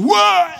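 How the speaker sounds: loud high whoa of a hit; football player's loud whoa on impact; tackler's grunt. Retold or imitated. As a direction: yell like a tackler slamming in. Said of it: "they make noises when they hit you".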